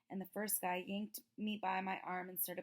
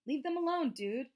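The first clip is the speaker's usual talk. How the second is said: firm; 7 semitones higher, 9 dB louder than usual. A narrator's reading. Amos confronts the bullies.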